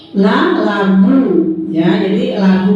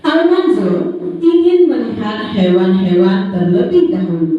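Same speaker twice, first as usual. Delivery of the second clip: put-on reading to a toddler; 3 semitones higher, slower than usual. Reads a story to the children.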